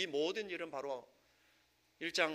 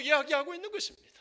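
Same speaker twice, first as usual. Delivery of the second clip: loud, raised-pitch pulpit proclamation; ringing sermon delivery, hammering each phrase; impassioned preaching; 8 semitones higher, 17 dB louder than usual. Real, not acted. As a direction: preach it at full force, voice lifted high. Preaches at full force.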